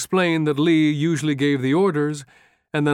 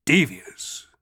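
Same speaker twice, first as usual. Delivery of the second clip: aghast; 3 semitones higher than usual. A narrator's reading. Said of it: "stare at him, aghast".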